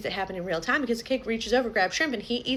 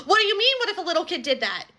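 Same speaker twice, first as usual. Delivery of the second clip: incredulous retort; 6 semitones higher, 3 dB louder than usual. Real, not acted. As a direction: throw their words back in disbelief. Mocking the parents' excuse.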